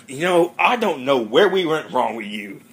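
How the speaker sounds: Red scolding Eric, hammed-up lecture; lightly voiced scolding dad. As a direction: ham up a fed-up father's rant.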